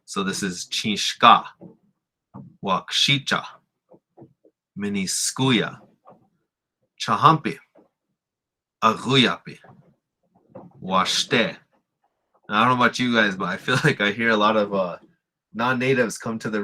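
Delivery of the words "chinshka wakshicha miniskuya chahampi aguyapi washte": each word from chinshka to washte rising onto its second syllable; second-syllable stress. Shown as a demonstration. Teacher reading a list, stressing each second syllable. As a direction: hit SHKA in chinshka, TE in washte. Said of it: "where it's the second syllable stress".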